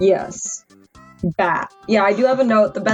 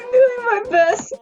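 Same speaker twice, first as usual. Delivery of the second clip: high strained voice; slower than usual. Real, not acted. Laughing, high strained line.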